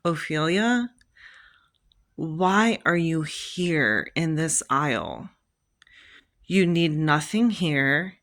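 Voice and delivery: slow, drawn-out inner voice; acted-out bewildered thinking aloud; puzzled self-questioning. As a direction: question yourself slowly, word by word. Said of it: "in my head, I'm going".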